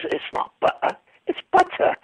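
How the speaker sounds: put-on father correcting in a high English accent. Joke father correcting son, high English accent. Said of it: "you did the accent well".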